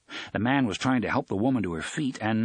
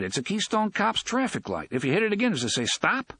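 lightly voiced wisecracker, higher pitch; quipping young man's voice, raised; Eddie, amused astonishment; 9 semitones higher than usual. A narrator's reading. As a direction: pitch it up in wry disbelief.

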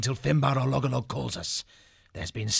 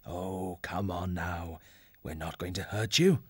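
gentle, lightly voiced kindly elder; easy, understated reassurance; speaking softly; 4 dB quieter than usual. A narrator's reading. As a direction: coax nervous guests to eat, softly. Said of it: "speaking softly to allay their fears".

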